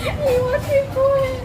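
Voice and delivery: high, laughing disbelief. Real, not acted. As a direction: squeal it through a laugh. Laughing recounting chef demand.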